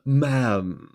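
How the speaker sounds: slow, mock-formal gentleman; drawn-out fancy compliment; posh doctor voice.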